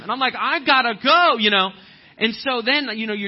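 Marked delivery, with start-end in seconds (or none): 0.4-1.4 hurried excuse. Retold or imitated. His own excuse, retold.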